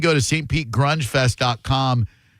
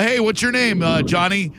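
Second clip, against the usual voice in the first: mock setup question; 5 semitones higher than usual. S0 mimics tricking Johnny.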